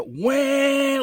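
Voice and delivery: a high imitated engine whine; engine racing noise. Hearing his engine race while upside down, high imitated whine. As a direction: mimic the racing motor. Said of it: "like something racing".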